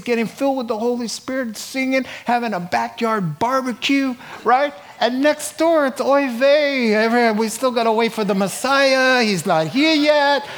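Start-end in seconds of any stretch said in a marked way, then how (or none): 5.0-10.5 light Yiddish inflection, lifted and louder; a hint of a Yiddish lament; Yiddish accent. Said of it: "that's my Jewish side coming out".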